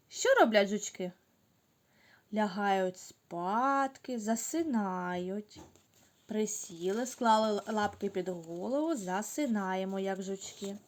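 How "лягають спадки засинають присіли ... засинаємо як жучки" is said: sleepy hush. Shown as a demonstration. Teacher softly lulls kids to sleep. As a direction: lull them to sleep softly. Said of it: "Настала ніч".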